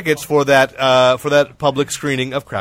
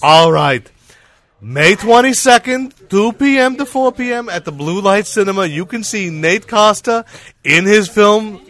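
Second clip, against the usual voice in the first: Jewish lady voice; 5 semitones higher, 3 dB louder than usual. Pretend. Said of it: "Use your Jewish lady voice".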